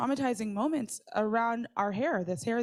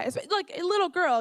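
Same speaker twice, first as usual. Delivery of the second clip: put-on little girl; 8 semitones higher than usual. Mocking own younger self.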